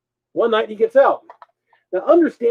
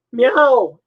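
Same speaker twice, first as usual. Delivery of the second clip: imitating a cat, higher; louder cat meow; 6 semitones higher, 6 dB louder than usual. Roommate imitates the cat meowing louder in the rain. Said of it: "He starts meowing louder".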